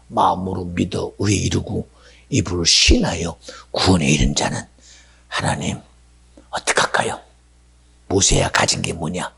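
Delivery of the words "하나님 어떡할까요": ordinary talk, nothing marked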